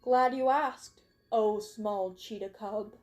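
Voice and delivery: slow, teasing grandness; returning the joke, slow; mock-formal reply. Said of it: "sighed and responded".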